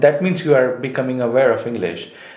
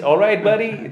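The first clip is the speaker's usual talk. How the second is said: explaining the phrase; 9 semitones higher than usual. Shown as a demonstration. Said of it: "And that means".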